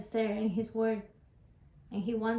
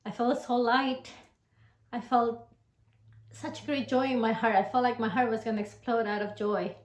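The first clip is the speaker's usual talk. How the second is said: fervent new convert. Real, not acted. Convert recalls joy of forgiveness.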